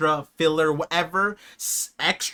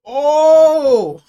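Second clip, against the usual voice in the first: loud, high burst of surprise; sudden gasp; 8 semitones higher, 12 dB louder than usual. Real, not acted. Viewer reacting to a shocking anime moment, loud surprised oh. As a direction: caught off guard, it bursts out.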